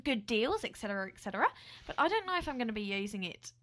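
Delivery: an attempted Aussie accent; put-on Australian accent. Co-host starting the airline story, put-on Australian accent. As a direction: present the story as a playful Australian. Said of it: "You're doing well".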